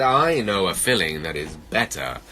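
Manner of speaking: low, deliberate storybook villain; hint darkly in a deep voice; menacing bear. Acted. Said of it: "gave a funny stare".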